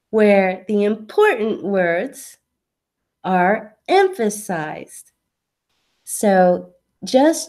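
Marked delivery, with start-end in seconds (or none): 0.1-5.1 slow, stressing the important words; English stress rhythm. Shown as a demonstration. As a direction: lean on important and emphasized. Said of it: "it's more like this".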